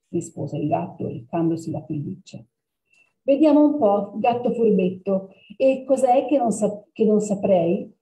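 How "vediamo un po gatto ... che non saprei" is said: higher, playful challenge; teasing girl. Acted. Girl teasing the clever black cat. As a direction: poke at the sly cat.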